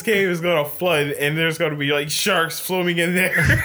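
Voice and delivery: laughing. Real, not acted. Laughing while describing flood.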